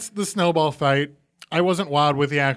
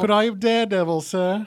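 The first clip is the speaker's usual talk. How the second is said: mock-British orphan request; Oliver-style British accent. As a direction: ask politely as a British orphan. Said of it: "Oliver Netflix".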